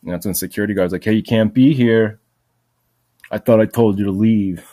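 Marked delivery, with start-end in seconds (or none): 1.0-4.7 mock guard bark. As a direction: lay down the law like an annoyed guard. Guard catches him again.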